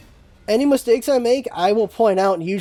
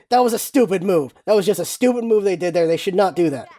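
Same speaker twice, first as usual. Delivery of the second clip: blunt; 3 semitones lower than usual. Shown as a demonstration. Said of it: "instead of saying".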